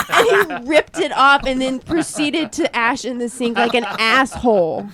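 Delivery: real indignation, hitting the insult; worked up, dragging out the final insult; getting heated. Real, not acted. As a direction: tell it with rising annoyance. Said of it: "I'm getting heated".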